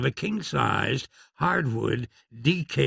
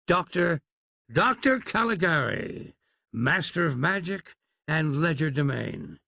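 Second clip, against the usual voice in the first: lightly voiced grand showman, a little higher; pompous showman Doctor; 4 semitones higher than usual. Doctor introducing his troupe to the lawmen, grand showman voice. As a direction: announce the troupe like a ringmaster with flourish.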